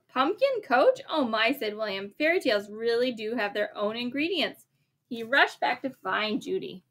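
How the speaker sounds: lively bedtime story reading; reading to a child. A narrator's reading. A parent reads the story aloud to a child, lively. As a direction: read it like a picture book at bedtime.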